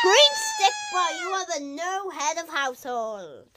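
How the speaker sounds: overjoyed cry-laugh; excited shout. Real, not acted. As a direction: scream the win through laughing sobs. Character wins head of household.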